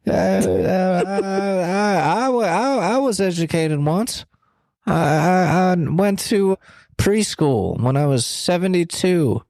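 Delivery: stammering, folksy politician with stretched-out words; Joe Biden. Acted. Joe Biden congratulating a friend on going back to school, halting impression. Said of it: "Kelsey, it's Joe Biden".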